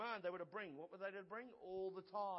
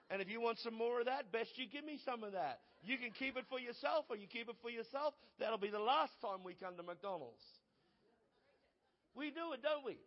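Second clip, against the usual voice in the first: playful dad; 4 semitones higher, 5 dB louder than usual. Acted. Dad voiced teasing his kids.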